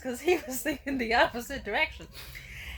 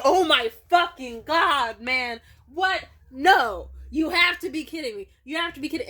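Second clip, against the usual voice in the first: exasperated disbelief; 4 semitones higher, 6 dB louder than usual. Retold or imitated. Acts out his openly exasperated disbelief.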